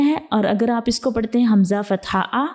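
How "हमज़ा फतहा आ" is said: आ cut off with a sudden jerk; आ snapped off with a jolt as a wrong example; jerked reading. Shown as a demonstration. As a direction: clip the आ short and abrupt. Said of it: "झटका लगा के आप पढ़ेंगे".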